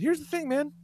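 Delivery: teasing. Retold or imitated. Teasing son after the prank.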